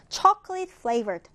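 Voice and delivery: very slow, clear reading; slow model reading. Shown as a demonstration. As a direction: spell it out slowly for learners. Teacher reads vocabulary example.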